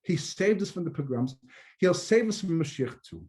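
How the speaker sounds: calming, smiling reassurance; wife gently calms her husband; soothing wife. Acted. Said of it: "his wife smiles and she says".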